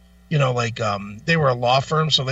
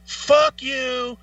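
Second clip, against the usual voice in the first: higher, hammed-up indignant snap; mock angry outburst; 9 semitones higher than usual. Homeless veteran insulted by a sandwich offer, mock angry. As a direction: play the offended man lashing out. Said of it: "he's like".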